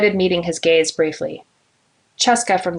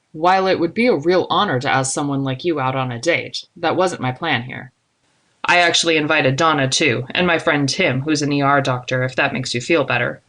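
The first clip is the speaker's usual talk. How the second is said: lightly voiced man, easygoing; 3 semitones lower than usual. Man tells a colleague it wasn't a date plan, lightly voiced and easygoing. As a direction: slightly lower male character, easing the tension. Narrator voices Zadok explaining himself.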